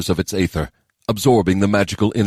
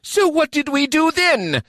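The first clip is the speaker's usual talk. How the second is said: high, slow mock growl. A narrator's reading. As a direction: snap it back irritably. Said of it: "Kisei growled".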